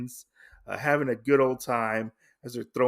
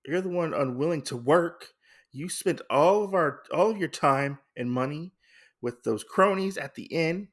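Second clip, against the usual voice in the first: retold argument, sister angrily refusing; adamant sister; 5 semitones higher than usual. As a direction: scold the lazy brother hard. Sister fights brother over swords.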